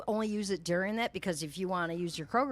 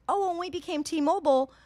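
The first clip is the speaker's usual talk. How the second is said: imitating the clerk; 8 semitones higher, 4 dB louder than usual. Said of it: "And she goes".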